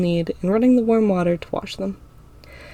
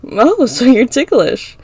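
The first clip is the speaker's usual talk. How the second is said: teasing, smiling; 5 semitones higher, 7 dB louder, slower than usual. A narrator's reading. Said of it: "I say, smiling".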